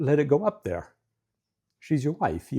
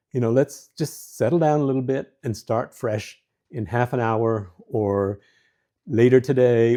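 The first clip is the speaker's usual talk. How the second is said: calm time-out. Shown as a demonstration.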